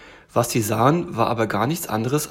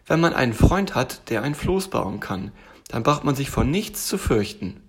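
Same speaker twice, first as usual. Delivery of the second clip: lightly voiced, trusting little tiger. Tiger praises his friend the raft builder, trusting.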